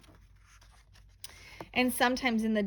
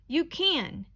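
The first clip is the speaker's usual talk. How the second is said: a mother's firm, higher "you can"; mother coaxing her son, lightly voiced insistence; insistent mother; 7 semitones higher than usual. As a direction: push back on the child, encouraging. Mother insists child can carry.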